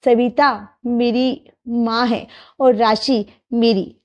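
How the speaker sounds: slow, drowsy mumble half asleep; sleep talking. Acted. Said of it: "ये क्या बड़बड़ा रहा है?".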